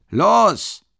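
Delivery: high, loud barked command; shout. A narrator's reading. Mikolka ordering the beating to start, shouting. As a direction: bark the start. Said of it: "ruft er".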